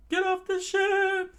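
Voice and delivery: very high, loud and slow command; stern order. Acted. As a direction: order him off the ship. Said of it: "Sanji said with, with furled brow".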